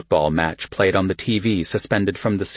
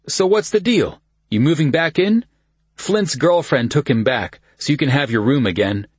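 cousin Kyle voice; 7 semitones higher, 3 dB louder than usual. A narrator's reading. Kyle voiced higher in story.

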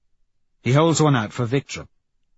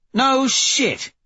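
surprised; 3 dB louder than usual. Acted. Severo surprised at the news.

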